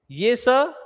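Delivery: स said as palatal "sh"; palatal sibilant. Shown as a demonstration. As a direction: raise the tongue to the palate for स. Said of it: "जीभ को तालु".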